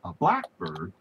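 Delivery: "blackbird" with the stress on "black". Shown as a demonstration. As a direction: say "blackbird" as one word, first syllable strong. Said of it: "The accent is on the first syllable".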